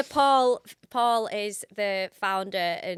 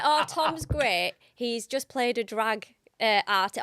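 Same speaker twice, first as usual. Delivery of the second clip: enthusiastic mum; 4 semitones higher, 7 dB louder, slower than usual. Retold or imitated. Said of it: "she was like".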